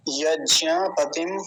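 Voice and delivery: यज्ञपतिम spelled out very slowly, syllable by syllable; slow Sanskrit recitation of यज्ञपतिम. Shown as a demonstration. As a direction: recite यज्ञपतिम at half speed. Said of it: "अगला शब्द है यज्ञपतिम".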